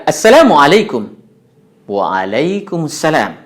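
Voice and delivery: Assalamualaikum with full Arabic vowels and drawn-out Waalaikumsalam; Arabic native accent. Shown as a demonstration. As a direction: greet like a native Arab speaker. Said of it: "kalau orang Arab mengucapkan". (salam dengan logat Arab asli)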